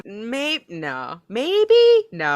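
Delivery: swinging maybe up high and loud, no dropped; hammed-up indecision; mock dithering. Mimicking friend's indecision.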